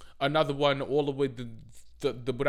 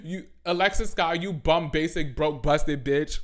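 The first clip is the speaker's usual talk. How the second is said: mock roast; 4 semitones higher, 5 dB louder than usual. Real, not acted. Roasting Alexis Scott.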